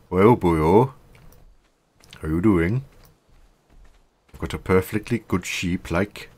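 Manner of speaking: hammed-up Welsh accent, sing-song; mock Welsh bloke, cheerful; a jokey Welsh accent. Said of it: "you like my Welsh accent".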